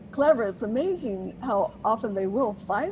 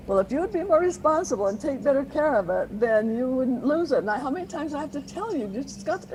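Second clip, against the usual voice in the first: lecturing parent, a touch higher; scolding parent; 4 semitones higher than usual. Retold or imitated. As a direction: nag like an exasperated parent. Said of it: "they just scold and scold and scold".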